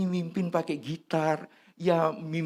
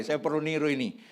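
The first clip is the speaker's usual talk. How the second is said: usual speaking voice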